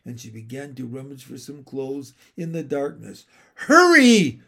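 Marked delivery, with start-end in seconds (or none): 3.5-4.4 a high, loud call from afar; a mysterious voice calling loudly. Acted. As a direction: call them to hurry after you. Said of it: "called the voice again".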